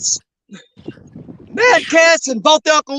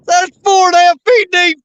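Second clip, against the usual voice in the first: loud, cracking shout of triumph; excited shout; 4 semitones higher, 4 dB louder than usual. Real, not acted. Angler calls out the depth to his buddy, excited shout. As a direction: yell it out, a little raw.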